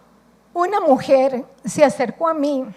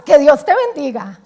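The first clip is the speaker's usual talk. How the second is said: casual goodbye; 7 dB louder than usual. Retold or imitated. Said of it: "así como diciendo el chao".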